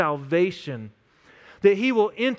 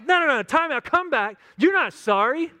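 scolding dad; 6 semitones higher than usual. Retold or imitated. Dad stops the fake apology.

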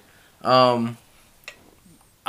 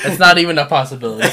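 laughing; 4 dB louder, much faster than usual. Real, not acted. Laughing denial.

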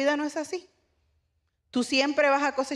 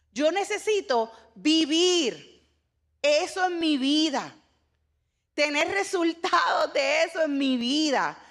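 preaching crescendo; 5 semitones higher than usual. Real, not acted. Preacher builds to a climax.

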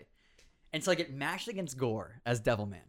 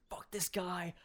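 muttered under breath; 3 semitones higher, 7 dB quieter, slower than usual. Retold or imitated. Frustrated rival mutters.

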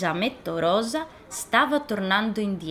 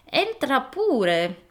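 put-on old grandma; 5 semitones higher, much slower than usual. Grandma inviting in.

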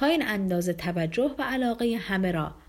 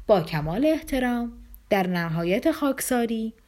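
mock grand manners. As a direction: lay the flattery on thick, mildly theatrical. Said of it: "با همان اداهای عجیب و غریب خود گفت".

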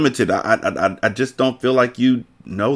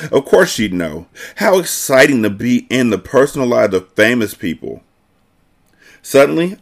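lively reading of a novel; story narration. A narrator's reading. Narrator reads a girl's thoughts about Alex, expressive storytelling.

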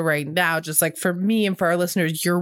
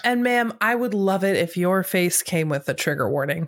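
trying to scold through laughter; laughing mock complaint. School staffer telling a ma'am her face needs a trigger warning, cracking up.

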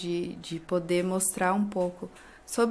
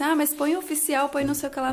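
imitating people; 6 semitones higher, 3 dB louder, faster than usual. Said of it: "O pessoal até pergunta assim".

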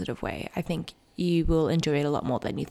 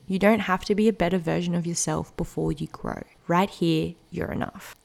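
reading a quote aloud. Acted.

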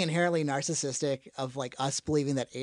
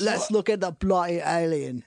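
put-on British accent; 4 dB louder than usual. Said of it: "we just did every dialect".

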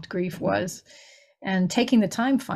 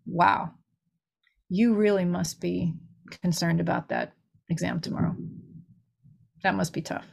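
gently empathetic; 3 semitones lower than usual. Shown as a demonstration. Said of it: "here's what would have helped".

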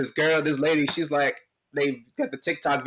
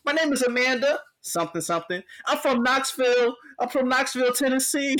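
high whiny mock sob; mock crying; 11 semitones higher than usual. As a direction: imitate a crying woman in a high voice. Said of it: "she's crying".

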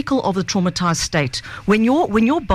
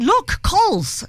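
dad pointing; 12 semitones higher, much slower than usual. Retold or imitated.

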